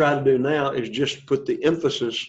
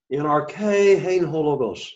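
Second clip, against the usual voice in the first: "in arche, hein, ho, logos" rising on arche, then stepping down; pitches up and down; slower than usual. Shown as a demonstration. Teacher shows readers the pitches, "in arche, hein, ho, logos" going up and down. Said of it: "the pitches were up and down".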